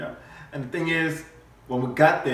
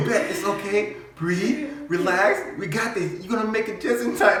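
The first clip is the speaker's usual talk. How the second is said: higher-pitched retold reassurance; hammed-up soothing pep talk; mock comforting; 9 semitones higher, 3 dB louder than usual. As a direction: imitate a partner coaching through labor. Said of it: "She's comforting me, saying".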